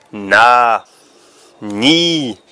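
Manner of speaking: "na" then "ni", each said cleanly apart; syllable demo. Shown as a demonstration. Teacher showing children how N joins vowels. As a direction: sound out "na" and "ni" for a child.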